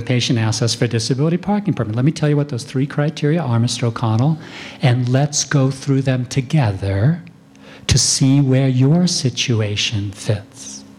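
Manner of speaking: unhurried reassuring clinician; calm doctor. Shown as a demonstration. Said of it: "We just train our doctors to very calmly say".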